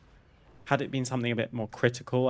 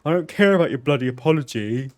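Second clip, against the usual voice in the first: loud, higher mock rant at the caller; angry customer; 4 semitones higher, 9 dB louder than usual. Angry customer shouting down the phone, loud mock rant. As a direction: throw the customer's anger back, loud and high.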